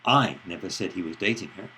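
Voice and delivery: "I" punched and prominent; stress on I. Shown as a demonstration. Lecturer shows stress on "I" to students. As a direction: hit the word "I". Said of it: "depending on which word is stressed".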